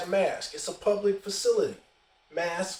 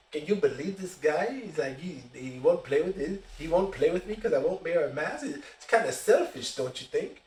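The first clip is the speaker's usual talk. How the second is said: pointed stage whisper; 3 semitones lower, 3 dB quieter than usual. Retold or imitated. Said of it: "he talks loud enough so that I can hear him".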